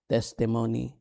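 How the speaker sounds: "testimony" with the first syllable stressed; front-stressed "testimony"; correct stress on testimony. Shown as a demonstration. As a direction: lean on the TES of "testimony". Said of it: "this is how you pronounce".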